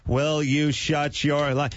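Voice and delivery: chanty announcer, easing out; mock announcer. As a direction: drift into a PA announcement. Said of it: "coast to a stop".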